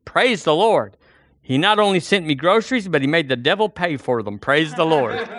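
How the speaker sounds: joyful praise. Acted. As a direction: crow with delight at the punchline. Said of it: "jumping up and down and clapping her hands".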